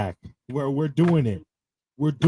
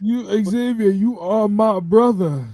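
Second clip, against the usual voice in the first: slow, higher cult-leader voice; mock Bray Wyatt; 4 semitones higher, slower than usual. Co-host imitating Bray calling Xavier his brother, lightly voiced and slow. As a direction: draw out each word like a sermon.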